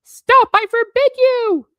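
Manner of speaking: very high, loud shriek; panicked yell. A narrator's reading. Uncle Vernon stopping Hagrid revealing secrets, panicked yell. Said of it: "yelled Uncle Vernon in panic".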